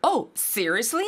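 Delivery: "seriously?" with the pitch climbing at the end; rising tune on Seriously. Shown as a demonstration. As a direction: lift the end of "seriously?" like a question. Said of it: "꼭 끝을 올려서 말해야 되죠".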